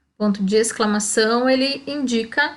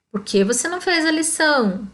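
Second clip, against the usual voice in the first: higher reproachful question; 5 semitones higher than usual. Shown as a demonstration. Teacher models a question about missing homework. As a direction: ask it like a teacher scolding. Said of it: "ponto de interrogação".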